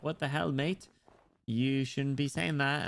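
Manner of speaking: mock British scolding; British accent. Imagined listener objecting to the accent, mock British reproach. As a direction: tick someone off in put-on British. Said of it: "listen to my British accent".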